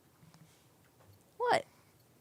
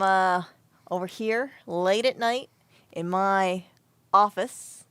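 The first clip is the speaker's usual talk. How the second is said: YouTuber impression; 6 dB louder than usual. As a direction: play the self-important YouTuber presenting a video. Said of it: "let me do my best impression".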